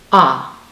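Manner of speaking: low, loud held "Ah"; saying ahh. Shown as a demonstration. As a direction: hold the "Ah" sound. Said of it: "write over the letter while you make the sound".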